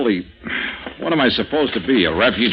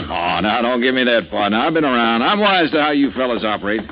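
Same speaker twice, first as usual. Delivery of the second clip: lightly put-on Texan oilman accent; Texan drawl; 2 semitones lower than usual. Posing as an oil-rich Texan to the stranger, a light Texan drawl. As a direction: play the rich Texan, folksy and easygoing. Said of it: "You made it in oil wells".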